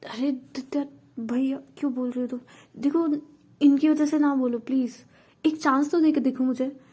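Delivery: voiced as a pushy young man begging for a chance; pushy suitor pleading for one chance; pleading boy.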